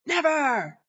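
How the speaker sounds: put-on high, loud child's scream; screamed defiance. Defiant five-year-old screams at the mom holding him, shrieking. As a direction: shriek it back in his face.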